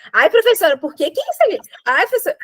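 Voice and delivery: mock whiny student pleading; hammed-up pleading student, a touch high. Student whining to the teacher for answers, mock pleading. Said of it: "Fica assim".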